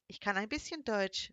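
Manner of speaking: put-on German with a light English accent; sweet English accent. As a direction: speak German like an English native, gently. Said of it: "sagte er mit einem süßen Akzent". (Deutsch mit leichtem englischem Akzent)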